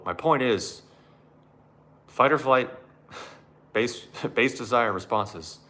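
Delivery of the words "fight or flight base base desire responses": laughing. Real, not acted. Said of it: "laughing while correcting".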